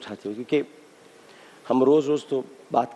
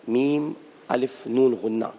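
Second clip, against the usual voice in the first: spelled out slowly; slower than usual. Shown as a demonstration. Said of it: "ماں کو اگر آپ لکھیں نا".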